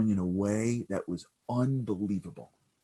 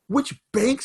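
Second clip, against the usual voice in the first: high, louder disbelieving echo; incredulous echo; 7 dB louder than usual. Retold or imitated. Son repeating the stranger's question, baffled. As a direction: throw the question back in disbelief.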